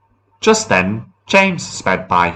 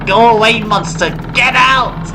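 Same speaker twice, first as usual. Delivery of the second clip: high, loud, scared command; frightened order; 4 dB louder than usual. A narrator's reading. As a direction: order the monster away in a high, panicky voice. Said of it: "Thomas ordered".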